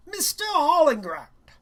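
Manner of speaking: loud, high teacher call; teacher calling on Chill by name; calling on a student. Acted. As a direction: call the name out across the room.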